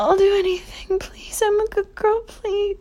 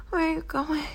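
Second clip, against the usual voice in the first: normal talking voice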